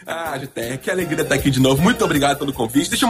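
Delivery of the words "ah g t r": usual speaking voice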